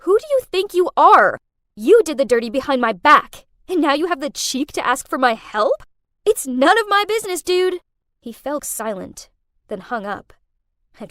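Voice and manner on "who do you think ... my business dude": loud, higher, outraged; indignant furious shouting; furious yell. Acted. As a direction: tear into him for asking. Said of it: "Furious, I yelled".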